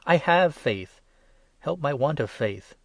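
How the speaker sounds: high, loud desperate cry. A narrator's reading. Father crying out to Jesus about his faith, high and loud. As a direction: cry it out from the gut. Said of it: "immediately cried out".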